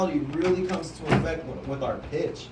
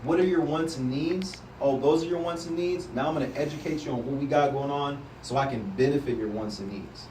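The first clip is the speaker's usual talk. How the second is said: conversational; 2 semitones lower than usual. Shown as a demonstration. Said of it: "it's a conversation".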